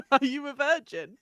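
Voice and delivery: lightly voiced cool vampire hunter; a hint of a mock serious vampire; deadpan Alucard question. Alucard quote acted out.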